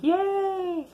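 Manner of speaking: high, slow, stretched cheer; mock cheer. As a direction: replay the graduation cheer, high. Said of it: "yelling all day".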